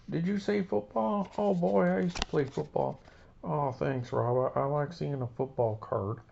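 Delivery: high, excited goofy voice; Gerald Ford puppet voice. Acted. Gerald Ford gushing to Rob about football, high goofy voice. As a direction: squeal about football like a kid. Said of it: "it's Gerald Ford again".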